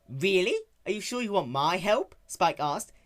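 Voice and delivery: a hint of a young dragon, fumbling; nervous Spike. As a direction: cover it up innocently. Spike teasing.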